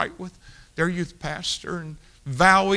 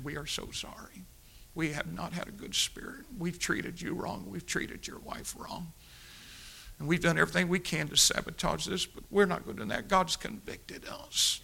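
hushed contrite apology; 4 semitones higher, 5 dB quieter than usual. Retold or imitated. Teens apologizing in tears.

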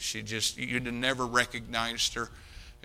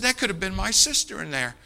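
much higher, louder anguished cry; pained, pitched-up despair; distraught; 8 semitones higher, 5 dB louder than usual. Retold or imitated. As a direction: voice the friend's shock in the hallway. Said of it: "he's just distraught".

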